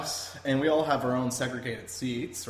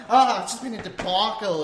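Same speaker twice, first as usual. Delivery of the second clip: higher, louder mock Aussie wail; Aussie woman; 8 semitones higher, 7 dB louder than usual. Traveler replaying the Aussie woman's arrival, exasperated high voice. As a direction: imitate a flustered Aussie seatmate. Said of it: "She's like".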